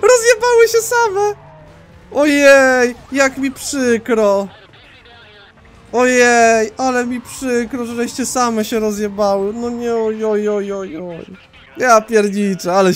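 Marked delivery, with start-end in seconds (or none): 0.0-1.3 loud, high, helpless laughter through words; laughing hard. Real, not acted. Gamer watching the SUVs wreck themselves, laughing hard. 2.1-11.3 high, drawn-out fake sympathy; mock pity. Gamer to police who wrecked themselves, mock pity.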